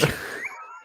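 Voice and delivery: squealing laugh shooting way up; a sudden high laughing shriek. Real, not acted. Laughing at joke.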